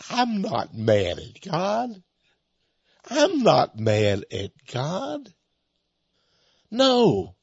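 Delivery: slow, hushed imitation of the speech-impaired man; changed voice. Young man telling the church he is not angry, slow changed voice. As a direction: lightly voice the injured preacher, dragging each word. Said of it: "And then his voice changed".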